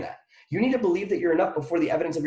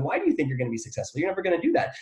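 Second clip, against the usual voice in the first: doubting inner voice; 3 dB quieter, faster than usual. Retold or imitated. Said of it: "a voice that says you're not enough, whispering".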